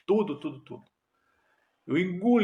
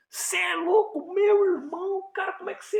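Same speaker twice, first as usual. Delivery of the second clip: amazed whisper. Retold or imitated.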